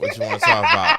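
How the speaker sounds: high squeaky laugh through the words; teasing giggle while asking. Real, not acted. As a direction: crack up mid-question, voice jumping way up. Teasing back about the suit.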